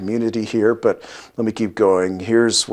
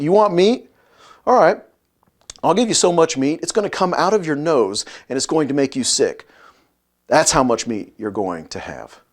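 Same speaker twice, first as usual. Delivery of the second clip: higher-pitched challenge, then settling; mock threatening retort; 3 semitones higher than usual. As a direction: dare them to keep complaining. God's retort voiced as threat.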